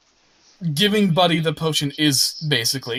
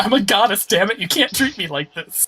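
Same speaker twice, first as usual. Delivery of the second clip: raised, louder mock indignation; indignant goddess; 5 semitones higher, 4 dB louder than usual. Goddess objecting to her treatment, hammed-up indignation. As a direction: protest grandly, starting high and loud.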